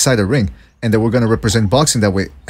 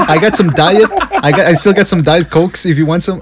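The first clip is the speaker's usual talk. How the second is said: higher, lightly mocking errand-boy voice; eager coffee boy; 5 semitones higher than usual. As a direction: play up a gofer eager to please.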